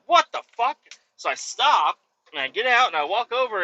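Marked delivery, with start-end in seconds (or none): 0.1-0.8 high, loud startled "what the fuck"; shocked outburst. Retold or imitated. Storyteller reacting to the monkey, a high shocked yell. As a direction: blurt it out in disbelief. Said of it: "And I'm like".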